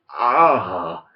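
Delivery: loud drawn-out "ah"; exasperated "ah". Real, not acted. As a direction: let out a long, frustrated "ah". Sighs over beloved character.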